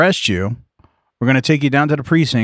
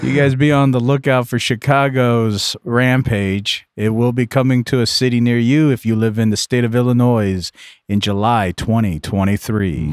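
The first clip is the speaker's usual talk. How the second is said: movie trailer voice. Pretend. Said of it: "Sounds like a movie th-, uh, trailer".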